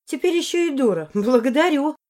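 high, loud, sarcastic thanks; sarcastic snort. Acted. Heroine snorts back at Morris, loud and sarcastic. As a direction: spit the thanks back, mocking. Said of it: "фыркнула в ответ".

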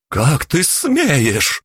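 how dare you, spat out in fury; outraged exclamation. Acted. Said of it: "воскликнула она".

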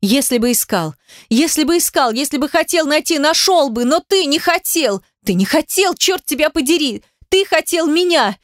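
high-pitched tirade, climbing and unrelenting; hysterical screaming. A narrator's reading. Heroine accuses Demyan of buying her, screaming. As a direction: hurl accusations in a high, frantic cry. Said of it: "От крика у меня зашумело в голове".

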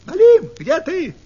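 loud, high fox call across the river; Russian: громкий высокий крик лисы; fox shouting. Acted. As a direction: call out for the burbot at full voice. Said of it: "и крикнула".

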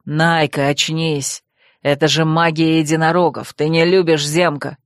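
низкий, вибрирующий голос оборотня-парня, обиженный; сыграй мрачного Вервульфа с упрёком; оборотень Койл. Acted. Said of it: "жарко проговорил". (низкий вибрирующий голос оборотня с упрёком)

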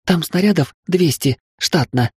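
high-pitched, mildly puffed voice; puffing. A narrator's reading. Willy answering while running under fire, high and puffing. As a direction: get it out in bursts on the run. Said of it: "пропыхтела Вилли".

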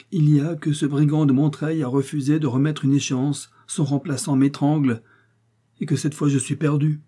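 a ruined man lashing out at his wife; husband furious at the banker, angry outburst; voiced husband, angry. Laurent bursts out angrily.

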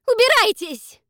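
very high, very loud shriek; a piercing furious scream; sudden scream. Acted. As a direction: scream them out. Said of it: "вдруг выкрикнула она".

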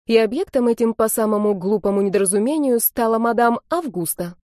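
usual speaking voice

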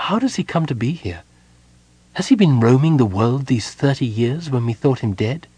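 Gold Moon voice. Acted. Gold Moon's voice, narrated story.

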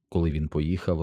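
plain reading voice

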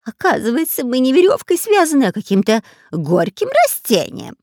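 high, loud robber voice between spits; robber spitting. Acted. Robber explaining to pirate while spitting out plant. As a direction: spit out the words. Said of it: "отплёвываясь, пояснил разбойник".

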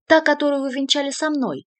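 high, loud furious cry; shout. A narrator's reading. Artyu shouting at the cardinal, furious. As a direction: hurl it at him. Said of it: "закричал Артью".

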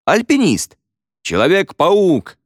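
high, excited call-outs; excited guesses. A narrator's reading. Pupils guessing the mime, high excited shouts.

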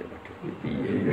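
slow, hushed, fretful whisper; worried whisper. Acted. Munkar Nakir whispering nervously after being snapped at. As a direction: whisper it as if caught out. Worried angels mutter among themselves.

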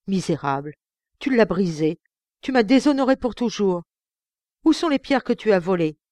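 loud, rising furious reproach; father raging at his son over the stones; enraged accusation. Acted. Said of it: "fou de rage".

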